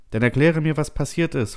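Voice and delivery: high, agitated demand; insistent demand. A narrator's reading. Settler demands the truth from computer, insistent. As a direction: demand an explanation, voice pushed up high. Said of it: "forderst du".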